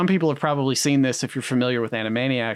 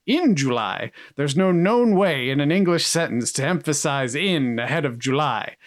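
mildly indignant mock star voice; Orson Welles; 2 semitones higher than usual. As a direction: act a touch affronted by the direction. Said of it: "He's like".

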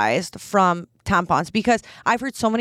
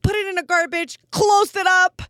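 high, pinched imitation of holding the nose; mock disgusted, nose pinched shut; blocked-nose voice; 8 semitones higher than usual. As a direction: act out speaking with your nose blocked. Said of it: "blocked her nose".

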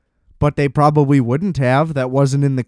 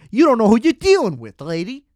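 fast, higher, hammed-up tough-guy voice; mock tough talk; 6 semitones higher than usual. To the rude pizza employee, a mock tough-guy threat. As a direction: play a cartoon heavy threatening her.

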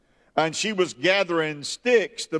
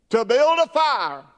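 pleading widow; 3 semitones higher than usual. Retold or imitated. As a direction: beg the prophet, near despair. Widow voiced pleading to prophet.

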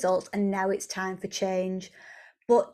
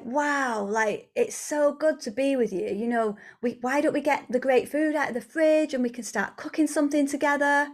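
mildly delighted, lifting higher toward the end; appreciative partner; 4 semitones higher than usual. Acted. Second partner arriving in the kitchen to cook together, appreciative delight. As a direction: play a partner glad to be here.

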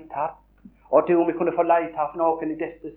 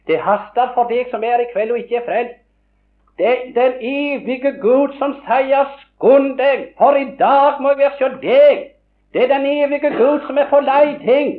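urgent preaching; 7 semitones higher, 5 dB louder than usual. Real, not acted. Preacher urging the unsaved, high and loud. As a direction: press the lost to come now.

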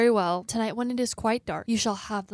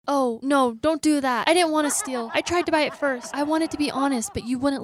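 anxious pleading; 4 semitones higher, 3 dB louder than usual. Acted. Begs witch not to curse.

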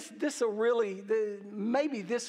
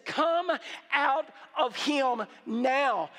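commanding; 2 semitones higher, slower than usual. Retold or imitated. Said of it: "Jesus says".

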